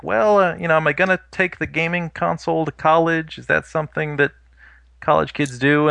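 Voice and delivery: high, hesitant mock self-questioning; imitating a doubting young self. Speaker voicing his younger self weighing a console for college, high and unsure.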